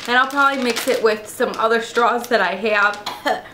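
coughing on a mouthful of cereal; choking on cereal. Real, not acted. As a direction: speak while half choking on cereal. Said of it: "choking on my cereal".

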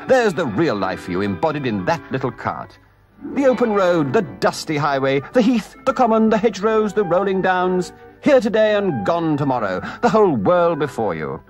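high, rhapsodic enthusiasm; crying out proudly. A narrator's reading. Toad showing off the open road, proudly excited. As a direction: list each delight with a soaring burst. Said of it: "cried the Toad, straddling and expanding himself".

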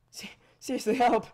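loud joking plea; mock cry for help. Real, not acted. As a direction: shout help playfully. Calling for help.

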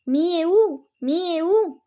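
a lightly voiced, distant mysterious calling; eerie spirit call. Mysterious voice calls disciple.

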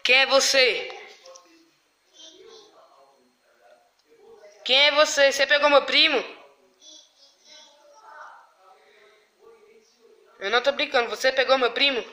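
loud frightened demand; scared shouting. Real, not acted. Confronting unseen prankster in dark.

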